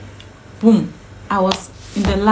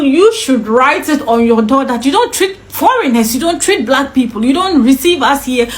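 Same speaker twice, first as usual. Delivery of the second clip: retold angry protest; 2 semitones higher than usual. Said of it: "I got angry".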